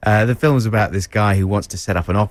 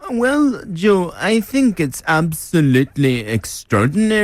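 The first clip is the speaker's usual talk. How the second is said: much higher, put-on critic's voice; Tom Paulin impression; 7 semitones higher than usual. Co-host asked to do his Tom Paulin. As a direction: do Tom Paulin gushing over it. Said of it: "give us a bit of Tom Paulin".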